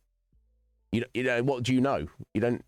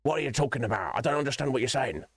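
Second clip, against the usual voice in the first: mocking confused people; 4 semitones higher, faster than usual. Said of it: "they're like".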